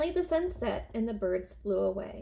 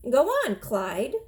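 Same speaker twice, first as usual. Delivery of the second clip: put-on old woman calling; 2 semitones higher, 5 dB louder, slower than usual. Old woman urging the scarecrow.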